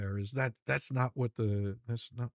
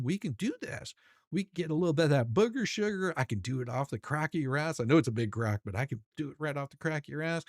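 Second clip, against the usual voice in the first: hammed-up excited rant. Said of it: "very excited about this and said".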